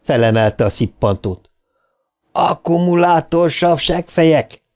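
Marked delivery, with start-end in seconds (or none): 2.3-4.6 high-pitched narrated war cry; battle yell. A narrator's reading. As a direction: yell the insult at the monster, voice pitched up. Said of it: "üvöltötte Eddi". (harcias üvöltés)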